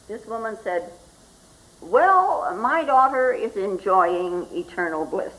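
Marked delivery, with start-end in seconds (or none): 1.8-5.3 lightly voiced mother. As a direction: lightly imitate a mother's emphatic assurance. Acts bereaved mother's confident reply.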